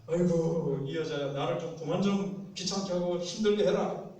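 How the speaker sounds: loud, fed-up grumbling; exasperated husband. Acted. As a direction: groan and complain as a pestered husband. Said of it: "남편 마음이 어떻게 들까요".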